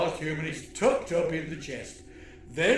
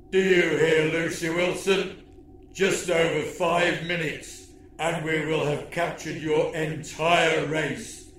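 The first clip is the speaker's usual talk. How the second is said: menacing alien villain. Acted. Villain threat monologue.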